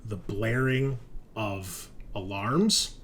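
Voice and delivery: slow, measured narration; game master scene-setting. Acted. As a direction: set the scene slowly, with drawn-out words.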